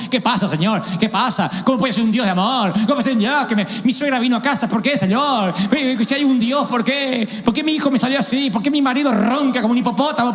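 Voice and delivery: lightly voiced complaining Job; a hint of whining Job. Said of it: "Porque era Job".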